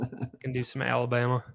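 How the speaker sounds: a light Alabama accent, close to his own voice. Shown as a demonstration. Cohost shows off his Alabama accent on the podcast, light Alabama accent. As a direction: slip briefly into an Alabama accent to show it off. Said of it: "That's a pretty close Alabama accent".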